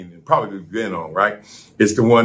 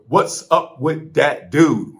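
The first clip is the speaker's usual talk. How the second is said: show catchphrase; 5 semitones higher, slower than usual. Acted. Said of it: "we start off every show with".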